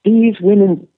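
hammed-up indignation, slow and emphatic; Jehovah, angry. Angry god telling men who created life, mock-angry. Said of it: "this very angry Jehovah coming and saying".

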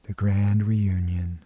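put-on whispered farewell to a dying child. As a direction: breathe the words out without voice. Aunt eases dying girl away.

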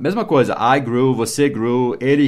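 usual speaking voice

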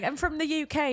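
high-pitched, laughing replay of his line; mocking imitation. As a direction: mimic him in a silly high voice.

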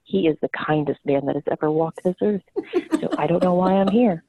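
a touch of smoker's low register, mom insisting; mom impression. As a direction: lightly imitate a proud, deep-voiced mother. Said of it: "very deep smoker's voice and this very strong Boston".

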